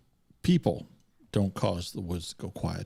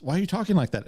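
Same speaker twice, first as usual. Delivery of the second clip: puzzled Gene Wilder; 9 semitones higher, much faster than usual. Retold or imitated. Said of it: "he goes".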